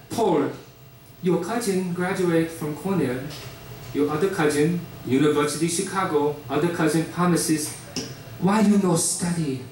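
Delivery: lightly voiced Korean immigrant mother, nagging; Korean mom accent. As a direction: nag about the cousins in a Korean accent. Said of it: "in Korean, my name sounds like Paul".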